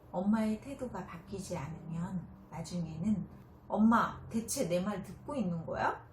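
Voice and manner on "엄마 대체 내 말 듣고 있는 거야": a loud burst on 엄마, then a touch of anger; a fed-up child calling out her mother; angry. Acted. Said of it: "하고 화를 냅니다". (엄마에게 화내는 아이, 가벼운 짜증)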